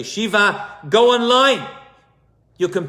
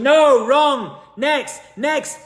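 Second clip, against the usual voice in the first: impatient rejection; 8 semitones higher, 5 dB louder, much slower than usual. Acted. Father rejecting suitors impatiently.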